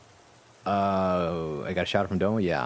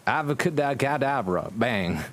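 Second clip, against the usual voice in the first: slow, high, hammed-up incantation; playful slow spell cast; mock spell; 3 semitones higher, slower than usual. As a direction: cast it like a silly wizard.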